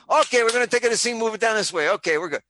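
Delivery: lightly acted film director calling the shot; Sergio Leone. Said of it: "I was waiting for Sergio Leone to come in".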